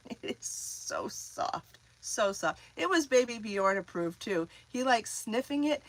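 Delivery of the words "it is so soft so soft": breathy hushed coo over the yarn; half-whispered and slow. Real, not acted.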